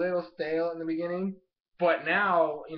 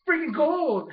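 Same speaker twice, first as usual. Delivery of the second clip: excited shout; 10 semitones higher, 5 dB louder, slower than usual. Retold or imitated. Excited announcing of gold.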